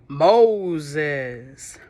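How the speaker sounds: a big, loud booming call of Moses. Acted. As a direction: boom the name out. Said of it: "boomed a big voice".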